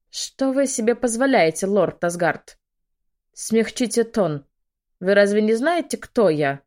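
loud, high offended protest; outraged noblewoman demanding respect; indignant. Acted.

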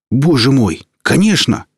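eager, high burst of joy; excited. Acted. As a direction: blurt it out, overjoyed. Eager answer to alien.

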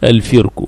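الفرك as al-firku; الفرك with its fa in kasra. Shown as a demonstration. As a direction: say الفرك with a short "i" after the f. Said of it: "بكسر الفاء".

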